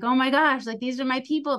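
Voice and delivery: loud gasp of delight, then rising pitch; thrilled. Retold or imitated. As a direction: burst out as if you'd found your tribe. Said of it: "my eyes just lit up".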